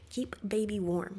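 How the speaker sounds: put-on deadpan "Keep baby warm" dropping the article; flat parroted wording; mimicking phrasing. Shown as a demonstration. Commenter parroting the mom's wording, deadpan. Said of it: "She says it like that".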